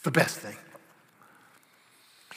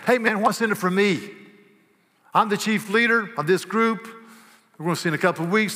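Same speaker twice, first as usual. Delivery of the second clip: greedy Peter; 5 semitones higher, 4 dB louder than usual. Acted. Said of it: "Peter saying".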